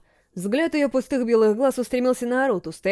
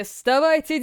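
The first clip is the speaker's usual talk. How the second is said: rising call; 5 semitones higher, slower than usual. Acted. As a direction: lift вставайте up into a call. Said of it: "словно издалека, послышался голос".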